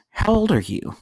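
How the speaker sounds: high mock-coy question; flirting woman. Imitates woman questioning him.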